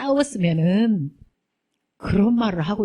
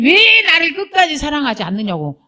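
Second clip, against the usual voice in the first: demanding lover; 5 semitones higher than usual. Retold or imitated. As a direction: imitate someone badgering for love. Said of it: "쫓아다니면서 강요를 해".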